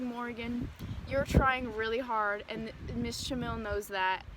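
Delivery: reassuring. Retold or imitated. Quoting Seth comforting her.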